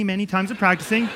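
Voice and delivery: ordinary talk, nothing marked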